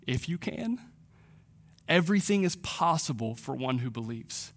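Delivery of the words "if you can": incredulous. Retold or imitated. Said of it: "Question mark".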